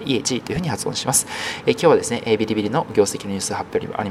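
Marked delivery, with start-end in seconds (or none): 0.0-0.4 "イエ" and "ジ" joined as one word, "イエジ"; Chinese pronunciation. Shown as a demonstration. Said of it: "この二つを合わせまして". (二つを合わせて中国語で「イエジ」)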